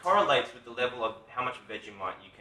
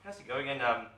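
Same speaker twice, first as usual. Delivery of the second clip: lightly attempted Southern American accent; a country singer. Australian host impersonating an American artist, tentative Southern accent. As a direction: imitate a Nashville country singer, a little hesitant. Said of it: "I reckon do Jaron Johnson".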